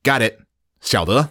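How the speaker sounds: mildly peppy acknowledgement; reply with a touch of pep; lightly upbeat reply. Shown as a demonstration. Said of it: "like a peppy way to say".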